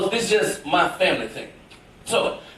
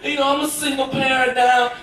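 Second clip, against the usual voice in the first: apologetic mother; 3 semitones higher than usual. Retold or imitated. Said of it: "she was like".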